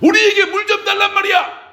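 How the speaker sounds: very high, shrill, loud, emotionally charged. Retelling what people said, with a put-on emotional tone. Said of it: "좀 감정을 섞어서".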